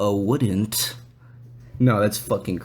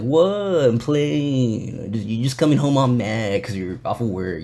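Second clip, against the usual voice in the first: passive aggressive. Retold or imitated. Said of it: "all passive aggressive".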